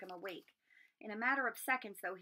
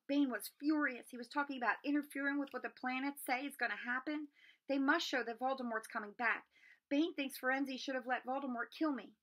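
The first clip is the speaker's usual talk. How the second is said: louder and higher, worked up; agitated boy; 4 semitones higher, 4 dB louder than usual. Acted. Harry tells his friends about the centaurs, agitated and louder. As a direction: pour it all out in a rush.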